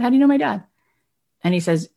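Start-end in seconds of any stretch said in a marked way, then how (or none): 0.0-0.6 high, louder puzzled question; retold astonishment. Son questioning Howard about his dad, astonished. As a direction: pitch leaping in baffled surprise.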